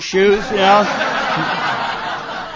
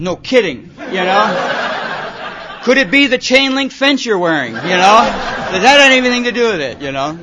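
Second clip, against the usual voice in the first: sarcastic reply; 5 dB louder than usual. Retold or imitated. Mocking reply to kid.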